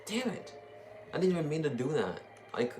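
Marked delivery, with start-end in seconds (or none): 0.1-0.5 high, exasperated curse; frustrated exclamation. Real, not acted. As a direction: curse it at yourself. Frustrated at own mistake.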